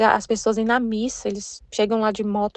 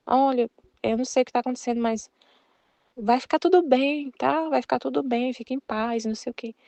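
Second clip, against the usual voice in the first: soft, reassuring mock comfort, trailing quieter; consolo encenado; 3 dB quieter than usual. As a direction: gently play someone comforting a crying friend. Consola amiga chorando com abraço. (consolo carinhoso encenado, voz suave)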